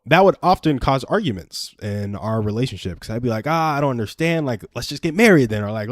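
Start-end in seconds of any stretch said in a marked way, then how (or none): 3.5-5.6 higher, exasperated retold plea; impatient pleading. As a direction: imitate his own impatient urging.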